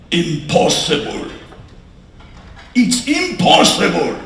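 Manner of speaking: put-on mild German accent, pronouncing a verdict. German doctor turning to the couple with bad news, German accent. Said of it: "I still hear his voice".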